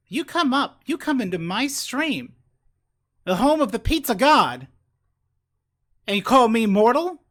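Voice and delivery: loud, grandiose mock-god voice; booming demon lord. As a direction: boom it out like a pompous pizza god. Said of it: "so I just did, like, a, a bit".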